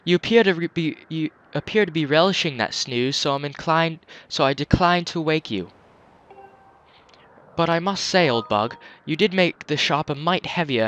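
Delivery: put-on a light English accent for the old shopkeeper; hint of a refined English accent. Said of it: "I gave him an English accent".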